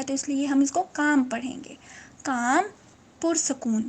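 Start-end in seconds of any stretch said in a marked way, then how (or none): 0.8-2.6 काम with long "aa" and no L sound; silent L. Shown as a demonstration. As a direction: read काम as "kaam", dropping the L. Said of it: "एल है ये silent है".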